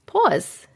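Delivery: "pause" with a rounded "aw"; New York "aw" vowel in "pause"; Long Island pronunciation. Shown as a demonstration. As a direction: say "pause" as "pawz". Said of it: "I'm saying the same thing".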